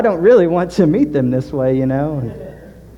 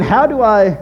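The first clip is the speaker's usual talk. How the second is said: anxious inner monologue; 6 semitones higher, 5 dB louder than usual. Retold or imitated. Panicked inner thoughts before hospital.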